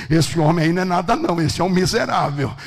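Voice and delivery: loud, scornful declaration; acted forceful dismissal; emphatic dismissal. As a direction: thunder it to put him down. Acted forceful dismissal of rich man.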